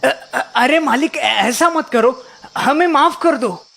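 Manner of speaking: stammering, mildly scared plea; a touch of nervous pleading; frightened pleading. Acted. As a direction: stumble over the first words as you beg. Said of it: "सारे भूत डर जाते हैं".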